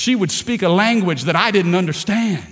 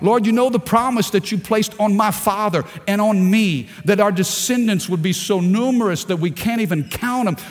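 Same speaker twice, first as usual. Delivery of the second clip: raised, urgent preacher's plea to God; pleading prayer; 4 semitones higher than usual. Retold or imitated. Preacher voicing Isaac praying for his wife, pleading. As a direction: re-enact a heartfelt plea, pitched up. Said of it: "He pleaded. He offered worship".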